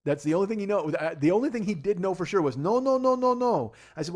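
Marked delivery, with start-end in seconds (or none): 2.6-3.7 high, loud mock refusal; lot guy refusing. Teller voicing the lot guy turning him away, loud mock refusal. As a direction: bark the lot guy's flat no over and over.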